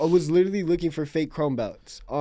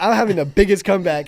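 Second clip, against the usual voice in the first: laughing mock quote; 3 semitones higher, 4 dB louder than usual. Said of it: "he's like".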